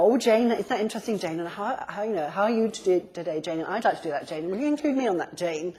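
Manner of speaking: mock chirpy overuse of a name; parrot-like name-dropping. Coach mimicking someone who overuses Jane's name, parrot-like. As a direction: lightly exaggerate each insistent repeat of the name. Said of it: "sound like a sort of parrot".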